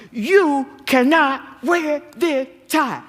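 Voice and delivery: high, slow, exasperated mock scold; hammed-up exasperated wife voice; mock fussy wife. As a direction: play up the nagging wife, drawn out and loud. Wife fussing at husband behind doors.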